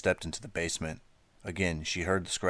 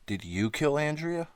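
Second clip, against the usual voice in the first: horrified; 10 semitones higher than usual. A narrator's reading. Horrified realisation of murder.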